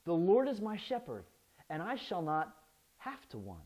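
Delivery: like a sheep with all it needs; contented. Shown as a demonstration. Preacher demoing true contentment, easy and calm. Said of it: "It sounds more like".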